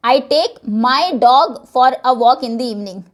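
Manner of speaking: very slow, "dog" pressed hard; stress on dog. Shown as a demonstration. Teacher demonstrating stress on "dog", slow. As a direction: drag it slowly and punch "dog". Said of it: "मेरे डॉग को लेकर जाता हूँ, किसी और को नहीं".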